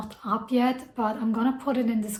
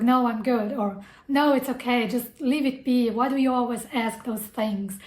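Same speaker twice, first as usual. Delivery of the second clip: mild snapping tone. Retold or imitated. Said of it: "when I say snap".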